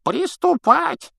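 put-on high, slow creaky old man; old prospector. A narrator's reading. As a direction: croak it like a frail old man. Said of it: "скрипучий голос старца".

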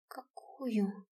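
almost no voice left; barely audible. A narrator's reading. Heroine faintly asks the general which theory. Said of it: "Мой голос был едва слышен".

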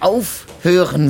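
slowed, loud cry to make him stop; drawn-out angry command; angry shout. Acted. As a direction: cut him off with a hard, drawn-out order. Furious interruption of accusation.

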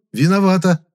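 loud, sharp cutting in; sharp interruption. A narrator's reading. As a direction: cut her off hard. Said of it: "резко прервал её я".

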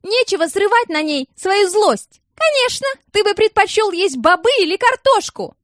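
high, loud angry tirade; furious yelling. A narrator's reading. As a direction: keep screaming at him. Alsana yelling in the bus. (высокий громкий гневный крик)

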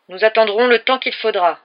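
loud, steady, unhurried; patient resolve. A narrator's reading. Sheriff to the hostage taker, loud and resolved. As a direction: settle in for the standoff.

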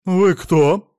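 sudden loud stare-down ask; startled loud question; blunt question. A narrator's reading. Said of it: "уставилась на него белокурая".

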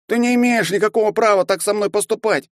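put-on high, careful young voice, every word clear; a small boy standing his ground, spelling it out; distinct boy's voice. A narrator's reading. Young Archonok firmly telling the bully he has no right. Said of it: "отчётливо произнёс Арчонок".

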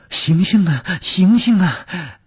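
high-pitched pleading calls; urgent calling. Acted. Servant at the bedside trying to wake someone, urgent calling. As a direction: call out to rouse an unconscious person. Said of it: "不停地叫".

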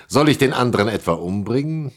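mocking question spilling out through a laugh, quick. Odysseus scoffs at killing the young rival, laughing. Old man mocks rival idea.

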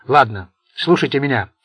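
put-on loud, commanding old don; stern old mafia boss. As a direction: lecture them like a scornful boss. Sergio's speech to mafiosi.

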